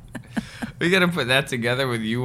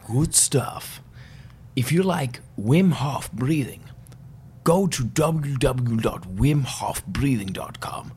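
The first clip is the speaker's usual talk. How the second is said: put-on Wim Hof Dutch accent. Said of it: "Dutch accent".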